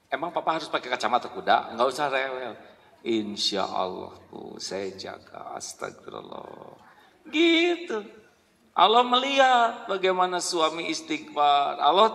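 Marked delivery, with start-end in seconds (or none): 3.0-6.8 meek husband. Pretend. Husband softly promising his wife. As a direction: answer meekly and low.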